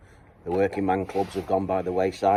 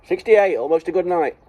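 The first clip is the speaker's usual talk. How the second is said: bingo caller; 8 semitones higher, 4 dB louder than usual. Retold or imitated. Bingo call joke.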